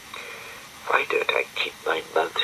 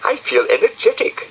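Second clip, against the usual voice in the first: put-on high girl voice; 4 dB louder than usual. Florence high and bright.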